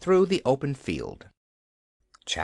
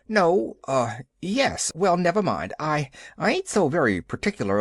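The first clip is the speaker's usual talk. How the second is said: stammering; 6 semitones higher than usual. A narrator's reading. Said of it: "stammered Nancy".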